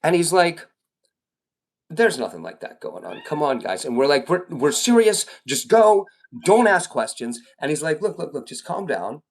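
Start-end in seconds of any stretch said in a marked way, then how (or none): 1.9-3.8 lower, mildly soothing dad-like voice; acting calm. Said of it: "he tries to act real calm". 4.3-7.4 higher, mildly alarmed urging; urgent plea. Acted. Acted urgent plea to friend. 8.0-9.2 softer, placating voice; acting calm. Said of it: "he tries to act real calm".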